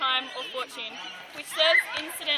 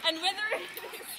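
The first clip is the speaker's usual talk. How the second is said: higher, then collapsing into real laughter; giggling breakdown; 6 semitones higher, 6 dB quieter, much faster than usual. Real, not acted. Student struggling through the analysis, helpless laughter. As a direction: try to continue and crack up.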